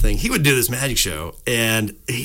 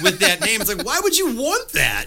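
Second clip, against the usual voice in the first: laughing; 11 semitones higher than usual. Real, not acted.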